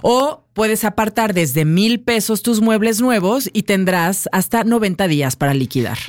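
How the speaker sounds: chatty sponsor plug with rising list items; radio ad read. Real, not acted. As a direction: sell the furniture sale to listeners. Continues the sponsor spot.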